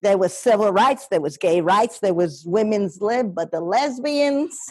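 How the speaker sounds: lightly voiced old New York lady; older lady. Older New York lady greeting diners in a restaurant, lightly voiced and chatty. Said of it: "the character is an older lady".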